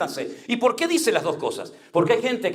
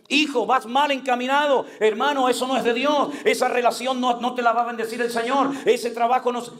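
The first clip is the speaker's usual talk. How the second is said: urgent, higher-pitched warning to a brother; admonishing; 6 semitones higher than usual. Acted. Preacher acting out a warning to a wayward brother, admonishing. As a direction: press the correction on them insistently.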